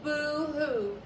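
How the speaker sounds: loud, sing-song mock crying; the bat mocking a crying ghost; mocking boo-hoo. A narrator's reading. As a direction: taunt him with fake sobs. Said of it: "the bat mocked".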